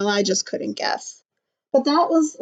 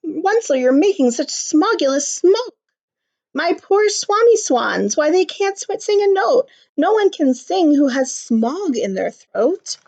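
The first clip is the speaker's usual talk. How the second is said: higher croaky scolding; croaky Lorax; 5 semitones higher than usual. Acted. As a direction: croak out the complaint. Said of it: "he cried with a crofulous croak".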